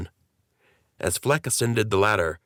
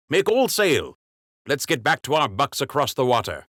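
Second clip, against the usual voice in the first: king giving orders; 6 semitones higher than usual. Acted. King ordering crew to sail.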